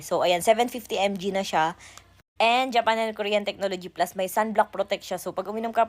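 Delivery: energetic product plug; ad read. Acted. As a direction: sell it like a live ad. Reads a product ad.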